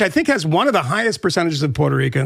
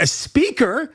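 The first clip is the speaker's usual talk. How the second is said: "a speaker?" with a higher, rising disbelieving tone; incredulous; 5 semitones higher, much slower than usual. Acted. Scoffing at Biden calling a comedian "a speaker", incredulous rise.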